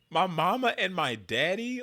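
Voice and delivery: slow, high hammed-up Oklahoma twang, mama stretched; mock Oklahoma drawl. Mocking the candidate's fake Oklahoma talk, exaggerated drawl. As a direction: overdo the folksy Oklahoma drawl, slowly. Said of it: "don't talk like that".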